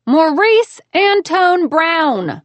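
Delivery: slow, high, through gritted teeth. A narrator's reading. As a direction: spit his full name through clenched teeth. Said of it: "I gritted between my teeth".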